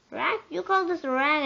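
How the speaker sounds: high, loud disbelief; outraged scream. Acted. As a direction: shriek it in offended outrage. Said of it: "I screamed".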